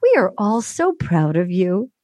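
low, measured mock host; imitating Chris Harrison. Host reassures waiting Claire, mock-solemn. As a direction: drop low and draw out the praise. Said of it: "And he goes".

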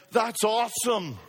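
put-on a botched, slightly Jamaican-sounding Brazilian accent; imitated Brazilian accent. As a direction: mimic a pastor's Brazilian accent, loosely. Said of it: "I got the accent wrong".

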